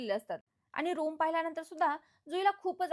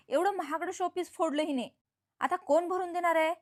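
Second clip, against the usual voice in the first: mock angry yelling; 2 semitones higher, 4 dB louder than usual. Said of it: "वसवात्या तिच्यावर खूपच ओरडत असतात".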